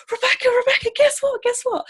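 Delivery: high, bubbly excited calling out; excited friend. Retold or imitated. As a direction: burst in with giddy news.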